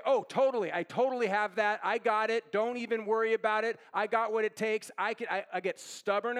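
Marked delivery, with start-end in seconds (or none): 0.0-4.9 lightly hammed-up breezy bravado; mock overconfidence. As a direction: brush it off like you've totally got it. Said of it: "What I tend to do is say".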